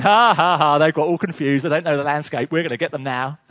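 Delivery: loud gloating taunt, laughing at the trapped; mocking Egyptians. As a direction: jeer at them like a gloating army.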